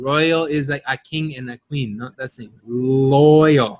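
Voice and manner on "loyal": loyal drawn out from a held L; clear initial L. Shown as a demonstration. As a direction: stretch loyal, starting clearly on L rather than R. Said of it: "with an L".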